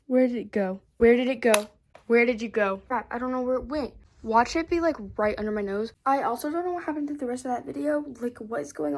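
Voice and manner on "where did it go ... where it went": alarmed. Real, not acted. Searching for lost pick.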